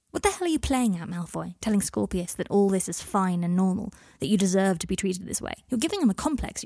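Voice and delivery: mildly heated telling-off; exasperated reproach; angry confrontation. Acted. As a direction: take him to task, indignant. Harry confronts Malfoy angrily.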